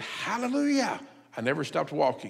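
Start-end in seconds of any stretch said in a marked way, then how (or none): 0.0-1.0 very high, sudden scream. Speaker recounts screaming the word while walking past a man; retelling a scream. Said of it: "I screamed the word".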